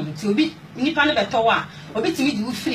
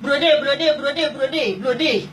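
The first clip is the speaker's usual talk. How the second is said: higher-pitched mock yell, rapidly repeated orders; imitated yelling; 5 semitones higher, much slower than usual. Retelling the white employer yelling up at her on the ladder, imitated yelling. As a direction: imitate a boss hollering orders from below. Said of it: "na Buroni no ateam".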